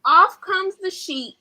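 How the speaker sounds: gleeful unmasking moment; excited reveal. Acted. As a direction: build the surprise. Big reveal climax.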